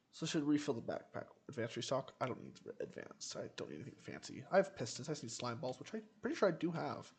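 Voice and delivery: quick, lively run-on thinking aloud; slightly rushed chatter; talking fast. Real, not acted. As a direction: rattle through it a little hurriedly. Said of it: "I'm talking fast for some reason".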